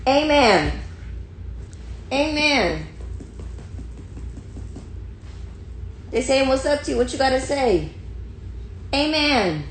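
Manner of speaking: insistent high-pitched talk to a pet; playful high pestering; high puppy voice. Pretend. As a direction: keep nagging the dog up high. Keeps pestering dog in high voice.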